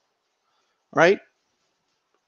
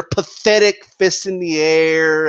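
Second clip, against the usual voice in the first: PATHETIC stretched out slowly; imitated insulting emphasis; 3 semitones lower, slower than usual. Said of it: "put emphasis on words that are insulting".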